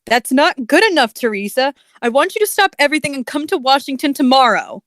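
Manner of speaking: lightly imitated narrator voice, pressing the demand; Chills. President summoning Teresa to Washington, insistent put-on voice. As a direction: raise the pitch a little and push through quickly. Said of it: "you're doing a Chills voice".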